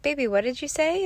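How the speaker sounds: imitating a mom's baby-talk question; mother to toddler. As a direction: ask your baby, voice lifted at the end.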